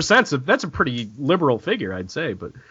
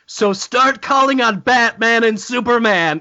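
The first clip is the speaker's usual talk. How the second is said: mock God voice; 6 semitones higher than usual. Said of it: "God actually said".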